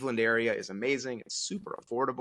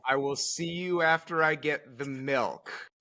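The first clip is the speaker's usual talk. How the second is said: mock innocence; 4 semitones higher, slower than usual. Mock innocent reply to wife.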